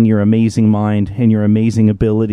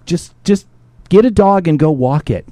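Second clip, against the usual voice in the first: mock doctor advice; 5 semitones higher than usual. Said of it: "I'm not lying".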